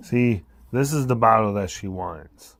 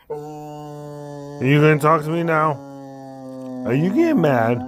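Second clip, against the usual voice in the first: teasing sing-song; 3 semitones higher than usual. Real, not acted. Owner taunting the dog over the bottle, sing-song.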